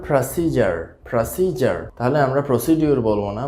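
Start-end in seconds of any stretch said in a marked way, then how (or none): 0.1-1.8 American "pra-SEE-jar" for প্রসিজার, final r sounded; American pronunciation. Shown as a demonstration. Teacher contrasts it for learners, American accent. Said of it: "আর American উচ্চারণটা হবে".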